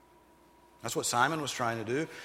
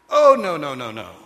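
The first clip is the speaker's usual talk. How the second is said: loud high burst of denial; loud emphatic no; 3 semitones higher, 15 dB louder than usual. Real, not acted. Preacher shutting down foolish Christians, loud. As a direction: cut the naive idea off hard. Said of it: "preacher rejecting naive hope".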